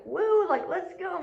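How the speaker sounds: high-pitched happy woo; excited whoop. Retold or imitated. Eager for a job visit, high excited cheer. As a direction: cheer like you can't wait. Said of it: "I'm sincerely like".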